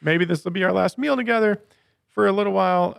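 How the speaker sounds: imitating excited apostles. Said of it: "So then we have the apostles saying".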